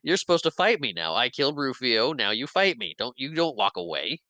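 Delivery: sad Hook. Retold or imitated. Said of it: "We get sad Hook again".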